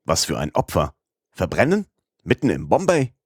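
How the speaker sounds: judge baffled, voice rising in disbelief; puzzled wonder. Acted. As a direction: judge questioning the accused, astonished and rising. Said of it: "fragte verwundert".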